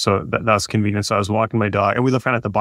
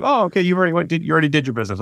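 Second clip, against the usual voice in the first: amused realization; 6 semitones higher, much faster than usual. Retold or imitated. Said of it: "So I was like".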